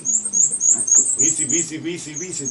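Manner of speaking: high squeaky weesey chirps; squeaky wheel bird call. Shown as a demonstration. Teacher mimics black and white warbler, squeaky. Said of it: "sound like a squeaky wheel".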